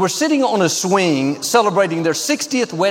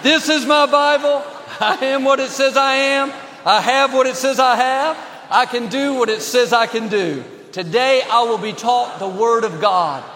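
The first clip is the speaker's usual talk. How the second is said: higher, chanted together with the congregation; bold Bible confession; 3 semitones higher than usual. Acted. Preacher leads the congregation's Bible confession, bold unison chant. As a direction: declare it boldly in unison.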